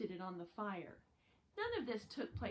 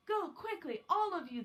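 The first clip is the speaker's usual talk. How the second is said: low and urgent; 7 semitones higher, 5 dB louder than usual. Acted. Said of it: "his voice low and urgent".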